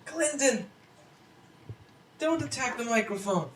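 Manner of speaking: high and loud, caught off guard; startled outburst. Real, not acted. Owner startled as the cat swipes the mic, loud. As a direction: yelp it out in shock.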